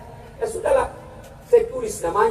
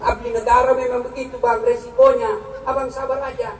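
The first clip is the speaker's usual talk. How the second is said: gentle wife; 2 semitones lower than usual. Retold or imitated. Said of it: "kasih semangat".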